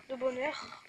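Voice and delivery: bonheur said with a long rolled R at the end. Shown as a demonstration. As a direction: stretch and roll the R in bonheur. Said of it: "Pourquoi je roule les R?".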